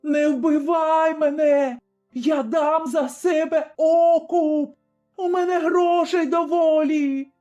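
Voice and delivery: desperate pleading. A narrator's reading. Doomed tavern keeper begs Zaruba for mercy, screaming. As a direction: beg for life offering money. Begging for her life.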